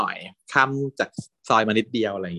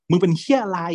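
retold yell; 9 semitones higher than usual. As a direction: shout it in anger. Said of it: "ตะโกนใส่พัดว่าแบบ".

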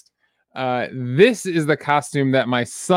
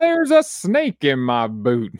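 pull string toy. Retold or imitated. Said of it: "my Tom Hanks impression".

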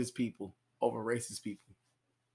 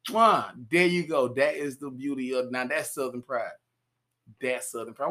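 approving kiss-off; 5 dB louder than usual. Retold or imitated. Approving reply to analyst.

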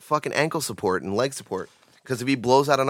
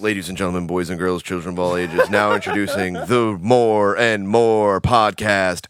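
grand entrance announcement; 2 semitones lower, 5 dB louder than usual. Acted. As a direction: announce the show like a ringmaster. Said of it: "introduces the show".

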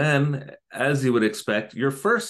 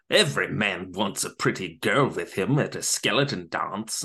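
a hint of a sly villain; sly villain line, lightly done; lightly voiced villain. Mad Hatter voiced in retelling.

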